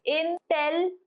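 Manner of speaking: Intelligent said vowel by vowel, each vowel sounded out; careful teacher demo of Intelligent with all four vowels clear; each vowel pronounced. Shown as a demonstration. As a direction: sound out every vowel in Intelligent, ending on a slight rise. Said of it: "we are pronouncing each vowel individually".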